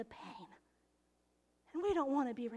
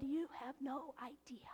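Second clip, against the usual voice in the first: put-on tearful kid; 10 dB quieter than usual.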